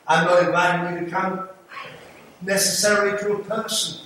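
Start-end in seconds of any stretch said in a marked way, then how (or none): 0.1-1.5 "not" is punched and the line is said a little louder; stress on NOT. Real, not acted. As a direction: hit "not" hard to correct the idea. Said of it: "I'm not inviting you to come to this church".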